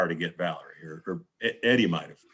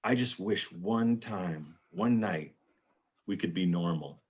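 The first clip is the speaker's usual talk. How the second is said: wistful Valerie; 2 semitones lower, 5 dB quieter than usual. Retold or imitated. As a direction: sigh it out like a tired wife. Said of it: "And she goes".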